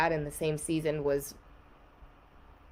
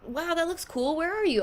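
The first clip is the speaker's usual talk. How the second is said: much higher, light imitation of the sister; imitating sister; 10 semitones higher than usual. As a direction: play the curious sister on FaceTime. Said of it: "She goes".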